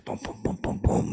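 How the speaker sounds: voiced bass beat in quick booms; rhythmic low-volume booms; imitated music beat.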